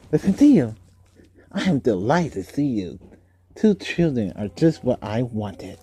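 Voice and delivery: mock uncle voice. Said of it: "I would be like".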